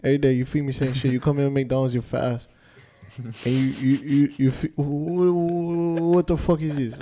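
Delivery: mock Asian-accented dog complaining. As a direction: rant at your owner in a put-on Asian accent. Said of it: "like an Asian dog".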